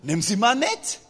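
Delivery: a hint of a careless king, laughing it off; lightly voiced casual Pharaoh. Pharaoh brushing off the request, mock casual and laughing. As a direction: toss it off with a chuckle. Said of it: "sagt Pharao".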